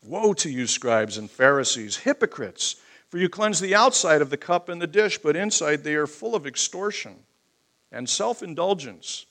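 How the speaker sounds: firm, emphatic reading of a rebuke; forceful scripture preaching. Acted. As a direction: press the scripture home.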